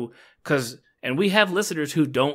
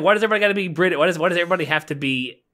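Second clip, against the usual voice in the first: retold gripe, pitched up and louder; indignant retold "why" rant; exasperated complaint; 6 semitones higher, 4 dB louder, much faster than usual. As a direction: complain in mock exasperation, voice lifting. Retold complaint to his wife.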